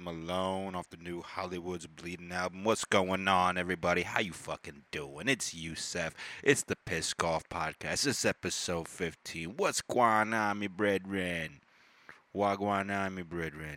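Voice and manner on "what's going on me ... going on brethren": attempted Jamaican accent. Podcast host greeting listeners, trying out a Jamaican accent. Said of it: "how to do Jamaican accent".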